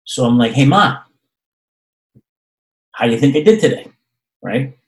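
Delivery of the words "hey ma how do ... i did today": fishing for praise. Retold or imitated.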